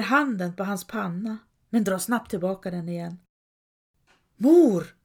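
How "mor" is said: loud, high call for her mother. A narrator's reading. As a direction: cry out across the room. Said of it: "ropar hon". (högt, ljust rop)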